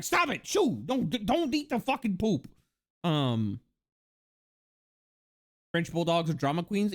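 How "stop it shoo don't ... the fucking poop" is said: sharp high shouts at a dog; scolding the dog. Retold or imitated. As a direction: shoo the dog off the poop. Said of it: "And I'm like".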